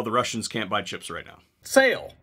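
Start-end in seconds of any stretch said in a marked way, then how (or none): 1.6-2.1 high, loud gleeful shout; mock sale cry. Host mocking the price drop, gleeful yell. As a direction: yell it like a cheesy ad.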